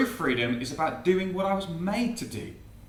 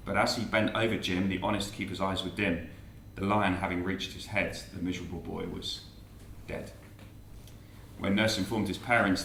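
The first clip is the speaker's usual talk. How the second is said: measured, lower verse recitation; poem recital; 7 semitones lower, 4 dB quieter than usual. Acted. Preacher reciting Jim's sad end, measured verse. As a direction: recite it with mock solemnity.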